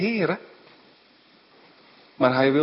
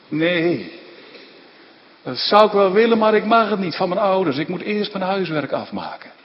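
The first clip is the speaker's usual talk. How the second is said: put-on sulky child; 3 semitones higher than usual. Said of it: "verongelijkt kind".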